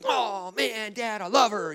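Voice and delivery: hammed-up heartbroken wail; put-on, over-the-top sobbing teenager; mock teenage crying. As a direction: imitate a lovesick teen bawling to Dad. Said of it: "I'm all upset and I'm crying".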